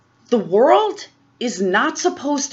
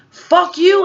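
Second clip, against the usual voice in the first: mock rant; 8 semitones higher, 6 dB louder than usual. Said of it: "starts ranting and raving".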